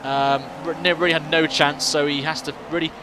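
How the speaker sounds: fast, lively race play-by-play; motorsport commentator. Acted. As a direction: call the overtakes as they happen.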